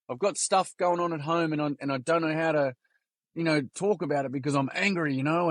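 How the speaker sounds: a hint of a troubled little boy; grade-three boy. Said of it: "This is a kid in grade three".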